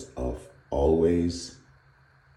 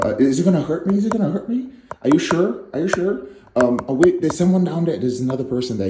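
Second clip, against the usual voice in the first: high, loud fretful questions, tumbling out; a nervous unicorn stalling its rescuer; panicking unicorn; 6 semitones higher, 5 dB louder than usual. Acted. Unicorn to its rescuer, a high, loud fretful stalling.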